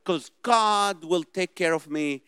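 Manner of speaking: mock overconfident believer. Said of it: "Some Christians say".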